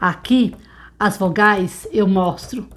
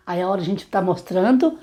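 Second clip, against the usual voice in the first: normal talking voice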